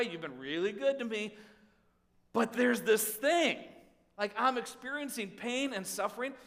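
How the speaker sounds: urgent pleading. Acted. Voicing a believer arguing with God.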